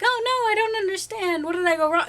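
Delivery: lightly exaggerated helpless complaint; confused shopper. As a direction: imitate a baffled shopper lamenting. Mimicking confused shoppers doing mental math.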